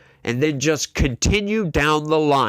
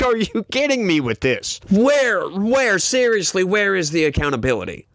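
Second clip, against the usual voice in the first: pitched up, pushing hard on each where; outraged, can't believe it; incredulous rant; exasperated disbelief; 4 semitones higher than usual. Real, not acted. Ranting disbelief at Tapper.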